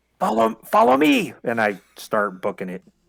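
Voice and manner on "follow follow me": loud, high-pitched stage whisper. With thirty orcs nearby, a player's character urges the others to follow, loud whisper. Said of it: "I whisper as loud as I can".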